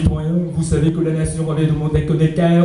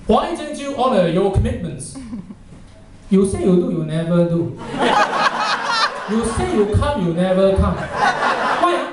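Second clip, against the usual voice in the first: formal English complaint. Shown as a demonstration. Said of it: "I'll give you an example".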